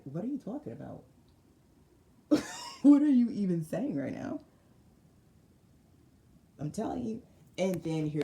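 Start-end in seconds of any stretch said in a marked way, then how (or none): 0.1-4.4 puzzled empress. Acted. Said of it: "Empress is like".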